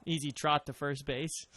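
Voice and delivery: imitating a Boston accent; easy Boston accent. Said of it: "mocking me with my Boston accent".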